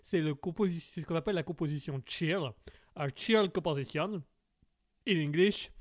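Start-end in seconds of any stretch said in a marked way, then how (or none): 3.0-5.7 hint of clumsy French-flavoured English; bad English accent. Host naming a music style in English, bad English accent. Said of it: "t'as un mauvais accent anglais".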